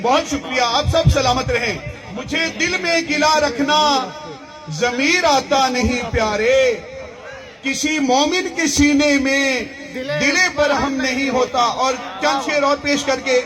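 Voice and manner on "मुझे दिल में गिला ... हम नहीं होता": measured, projected mushaira recitation; poetry recital. Acted. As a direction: declaim the verse to the crowd, stretching the line ends. Recites Urdu poetry to audience.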